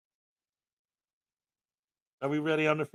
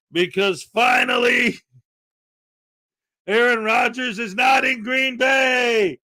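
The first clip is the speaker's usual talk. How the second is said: triumphant slow shout; 4 semitones higher, slower than usual. Real, not acted. To the chat about Rodgers leaving Green Bay, gleeful slow shout. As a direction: savour each word like a victory lap.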